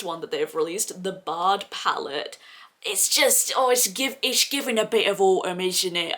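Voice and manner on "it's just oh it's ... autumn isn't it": accidental Welsh lilt; Welsh accent. Acted. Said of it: "I don't know what that accent was".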